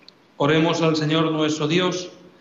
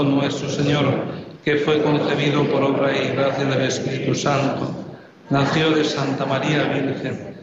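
prayer recitation. Acted.

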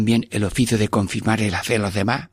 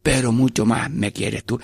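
slower and calmer, each word placed; more slowly. Shown as a demonstration. Priest repeating the prayer for listeners, slowly. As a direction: say it again deliberately and slowly. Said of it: "lo digo más despacio".

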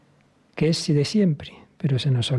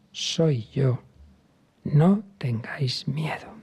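tender whisper as Jesus; slower than usual. Acted. Jesus calms the frightened apostles.

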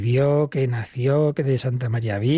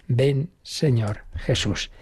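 prayerful plea; much slower than usual. Acted. Prayer repeated.

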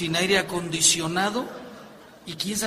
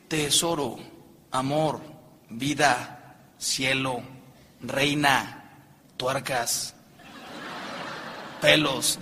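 endearments; 4 semitones lower, slower than usual. Shown as a demonstration. Demonstrates endearments against plain names.

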